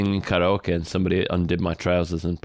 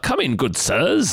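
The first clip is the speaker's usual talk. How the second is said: lightly put-on Cockney welcome, higher and drawn out; mock Cockney accent; 5 semitones higher, slower than usual. Co-host imitating the bar worker greeting them, mock Cockney accent. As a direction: imitate a Cockney barman, half laughing. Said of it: "like, Cockney-ass accent".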